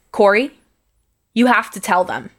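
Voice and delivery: understated, steady motherly instruction; lightly voiced composed mom, even and sure; calm and firm. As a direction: give a measured, firm push. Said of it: "my mom is super calm and firm".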